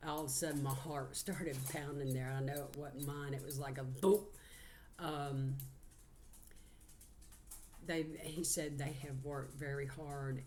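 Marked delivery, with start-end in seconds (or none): 3.8-4.2 imitated boom. Shown as a demonstration. Imitates sudden heart thump.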